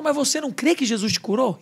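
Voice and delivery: mildly stern retold challenge; imitating firm father. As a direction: press the question like a firm dad. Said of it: "E firme". (pai firme, cobrando, encenado)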